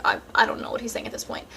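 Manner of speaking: quick, soft, half-whispered aside; tuned-out mumble. Real, not acted. To the audience, zoning out on him: quick breathy mumble. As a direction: mumble it like you stopped listening. Tuning out his talking.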